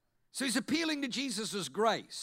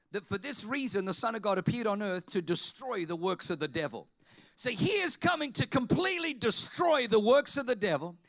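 preaching over music. Acted.

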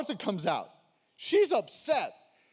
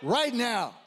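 emphatic shout; 4 semitones higher than usual. Real, not acted. Preacher punches key phrase.

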